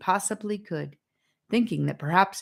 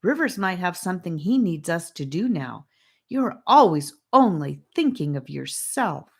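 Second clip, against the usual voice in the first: protesting; 2 semitones higher than usual. Acted. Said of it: "Annika protested".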